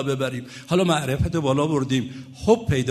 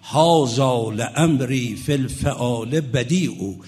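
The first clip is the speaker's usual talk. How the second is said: slow, measured poem reading; Arabic verse recitation; much slower than usual. Real, not acted. Preacher quoting the Imams' poem to listeners, slow recitation. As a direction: recite the verse with drawn-out syllables.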